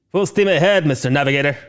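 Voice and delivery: a touch of commanding starship captain; Shatner impression. Host playing captain to his navigator, lightly voiced Kirk order. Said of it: "William Shatner".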